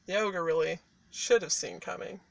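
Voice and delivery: ordinary delivery, nothing marked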